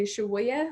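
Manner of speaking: "Shawaya" said shuh-WAH-yuh, rising at the end; "Shawaya" said carefully, three light syllables; Apache word for grandma. Shown as a demonstration. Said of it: "in Apache language, we say".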